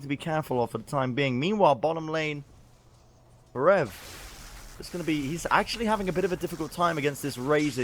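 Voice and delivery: esports caster. Acted. Play-by-play casting.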